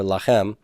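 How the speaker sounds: "lachem" stressed on the final "chem"; stress on last syllable. Shown as a demonstration. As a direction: put the weight at the back of "lachem". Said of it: "stress is gonna be on those".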